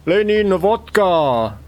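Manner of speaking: sudden cry, starting high and falling; involuntary outburst. Acted. Clerk asked about city life, involuntary outburst. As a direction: blurt both words out. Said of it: "sorry for that outburst".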